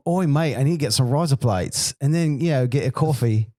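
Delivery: Australian accent, hammed up; mock Australian accent. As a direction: play a cheerful Aussie ordering coffee. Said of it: "an Australian accent".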